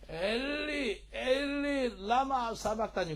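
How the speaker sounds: high, sustained cry at moderate volume. Acted. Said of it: "큰 소리로". (높고 길게 끌며 부르짖는 소리)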